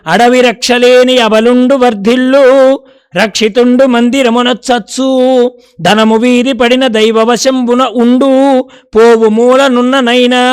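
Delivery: slow, chanted recital of a Telugu padyam; verse recitation. Acted. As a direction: intone the old verse with weight, lingering on each phrase. (నెమ్మదిగా రాగయుక్తంగా పద్య పఠనం)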